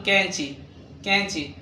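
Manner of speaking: كنشي with a k, "kainchi"; Urdu pronunciation. Shown as a demonstration. Teacher models written qaf sounded as kaf, كنشي "kainchi". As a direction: say كنشي with front k and ch. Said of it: "قاف ينطق مثل كاف".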